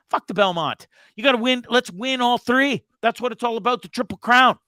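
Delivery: rally for the Triple Crown; fired up. Real, not acted. Fired-up demand to race.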